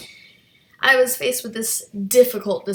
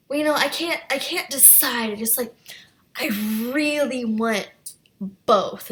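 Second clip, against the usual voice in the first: bratty whining; 2 semitones higher than usual. Retold or imitated. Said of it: "that really bratty thing".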